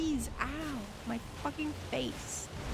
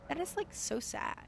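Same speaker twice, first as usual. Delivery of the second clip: higher-pitched mock sympathy; sarcastic rich girl; 4 semitones higher than usual. Streamer mocking a sconeless dream, sarcastic rich girl. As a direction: pity them insincerely, rich-girl style. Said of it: "sarcastic rich girl voice".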